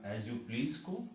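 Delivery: "as you please" said very slowly; slow model phrase. Shown as a demonstration. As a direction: draw out "as you please" for the learner. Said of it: "तो ये याद रखिएगा". ("as you please" बहुत धीरे)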